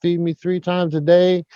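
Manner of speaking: ventriloquist's cow chatting back contentedly; a hint of a joke-teller's cow voice; talking cow. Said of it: "Cow says".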